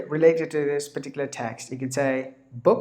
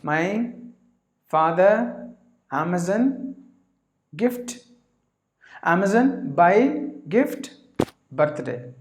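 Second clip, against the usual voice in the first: slow, word by word, each word pushed out; broken English demo; 3 semitones higher, slower than usual. Shown as a demonstration. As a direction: lay out single words one at a time like a beginner. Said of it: "you would like to say that".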